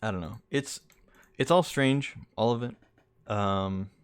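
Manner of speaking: talking while chewing gum. Real, not acted. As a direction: say it around a wad of gum. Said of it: "It's making me talk funny".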